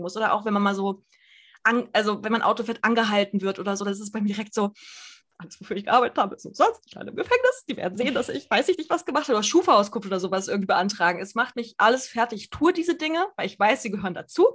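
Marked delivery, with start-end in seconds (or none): 5.4-9.3 mock panic climbing high; hammed-up catastrophizing, voice shooting up; nervös. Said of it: "bin ich immer super nervös". (gespielte Panik, Stimme schnellt hoch)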